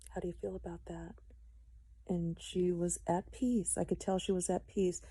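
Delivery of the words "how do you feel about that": whispered question. Retold or imitated. Gently asking dying mother.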